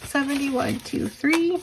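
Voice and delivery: strained, fading voice; hoarse from losing her voice. Real, not acted. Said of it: "Sorry, I'm losing my voice".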